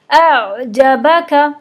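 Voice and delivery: अअजबका with the ain drawn on, very slow; flowing sukun ain. Shown as a demonstration. Teacher showing sukun ain, slow and flowing. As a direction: let the ain in अअजबका run on without a stop. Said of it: "बल्कि इसको थोड़ा सा चलाना है".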